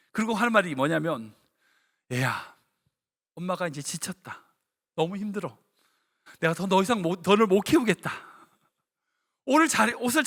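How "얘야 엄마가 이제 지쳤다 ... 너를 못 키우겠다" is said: weary mother. Retold or imitated. Mother gives up on child.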